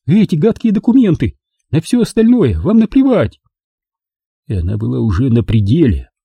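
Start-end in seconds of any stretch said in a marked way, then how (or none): 0.0-3.4 much higher, shrieking near hysteria; hysterical shout. A narrator's reading. Girl screaming at Bolan over the documents, hysterical. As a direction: let it break loose at the top. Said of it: "закричала она почти в истерике".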